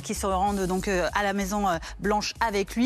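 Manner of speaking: urgent news anchor read; breaking news. Acted. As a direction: open the special bulletin briskly. Anchor opens special edition.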